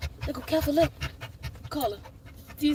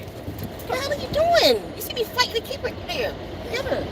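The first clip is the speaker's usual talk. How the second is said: exasperated; 10 semitones higher than usual. Real, not acted. Frustrated at helper.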